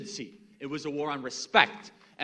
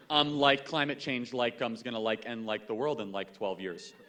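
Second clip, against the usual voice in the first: valley-girl mockery; 4 semitones lower than usual. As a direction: lightly imitate a scatterbrained talker, trailing off. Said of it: "you weren't saying "like" every other word".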